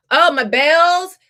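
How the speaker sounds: high, loud and slow delight; bright excited oh; excited exclaim. Real, not acted. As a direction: burst out with joy. Excited about her bell ritual.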